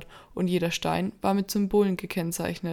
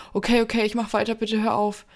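pleading; 3 semitones higher, 4 dB louder than usual. Acted. André in pain, begging.

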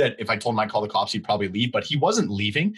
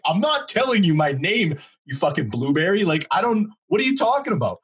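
heated retort; 5 semitones higher than usual. Retold or imitated. His heated comeback, acted out.

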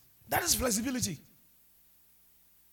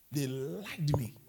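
whispered aside; 4 semitones lower, 3 dB quieter, much slower than usual. Real, not acted. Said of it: "whispered aside".

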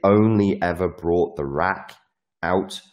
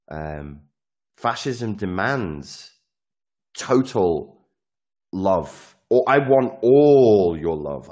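mock fascist leader; 2 semitones higher, 3 dB louder than usual. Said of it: "I'm a fascist now".

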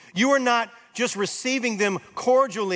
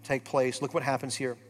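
softer, lower, intimate preaching; soft altar call; 5 semitones lower, 7 dB quieter than usual. Acted. Pastor speaking softly to hurting listeners, tender appeal. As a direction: draw each listener close, gently. Quiet reflective preaching over music.

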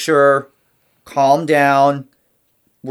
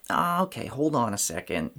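calm adult voice. Retold or imitated. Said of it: "adding the adult voice".

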